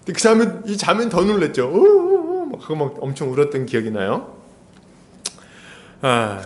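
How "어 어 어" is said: startled sob. Retold or imitated. Startled girl sobbing.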